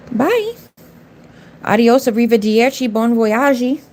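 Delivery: bye swooped up high, mocking farewell; sing-song goodbye. Real, not acted. Streamer waving off a rude viewer, sing-song mocking goodbye. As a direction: wave her off in a teasing lilt.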